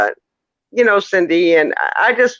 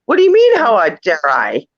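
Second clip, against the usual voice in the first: retold angry outburst; 4 semitones higher than usual. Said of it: "And I'm just like".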